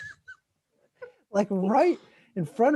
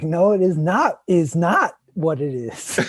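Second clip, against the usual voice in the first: indignant retort; 8 dB louder than usual. Retold or imitated. Mocking the neighbor's phrase.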